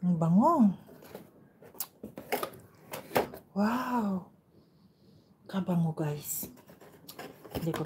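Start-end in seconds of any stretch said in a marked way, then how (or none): 0.1-6.5 delighted. Real, not acted. Smelling orange.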